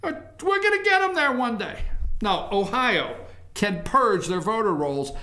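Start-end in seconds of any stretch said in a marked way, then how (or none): 0.1-1.8 laughing. Real, not acted.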